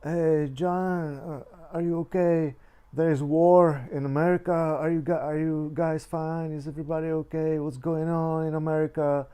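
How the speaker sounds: high, loud, alarmed mother on the phone; mom's alarmed call. Retold or imitated. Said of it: "she goes like".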